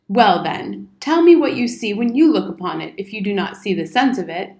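a touch of military bluster; lightly voiced indignant old soldier. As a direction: demand an answer like an officer. Old soldier challenges boy.

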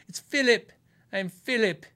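mock-pretentious, insist on the proper "Philip"; pretentious correction. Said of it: "what a pretentious douche to be like".

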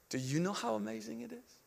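very soft, hushed asking; whispered question. Retold or imitated. Spirit speaking into the preacher's heart, hushed. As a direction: ask it gently, almost whispering. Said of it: "the Spirit whispered in my heart".

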